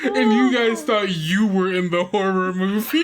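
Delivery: teasing the players while cracking up; laughing. Real, not acted. Laughing at the twist.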